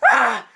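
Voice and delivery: short, high, loud "ah"; sudden mock scream; startled scream. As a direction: imitate a man yelping in fright. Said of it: "he's, like, screaming".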